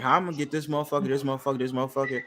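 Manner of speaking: fast, soft plotting mutter; scheming inner voice. Retold or imitated. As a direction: rattle it off to yourself. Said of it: "I was like".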